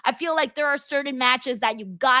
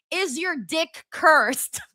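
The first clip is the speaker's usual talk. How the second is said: Danhausen bit; 3 semitones higher, much slower than usual. Pretend. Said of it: "a Danhausen kind of bit".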